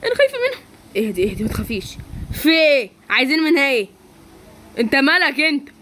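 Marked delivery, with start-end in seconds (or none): 0.0-0.6 high, tearful whimper; tearful fear. Acted. Girl to her rescuer, high and tearful. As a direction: tell him you're scared, near tears.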